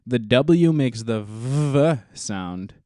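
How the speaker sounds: "V" voiced as a long, buzzing vuh. Shown as a demonstration. Co-host giving a German lesson, stretching the "V" sound slowly. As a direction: slowly show the "V" sound, held out. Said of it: "makes the V sound".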